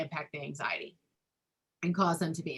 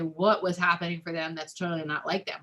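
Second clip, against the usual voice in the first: calm parent. Retold or imitated. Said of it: "When I calm down, I can say".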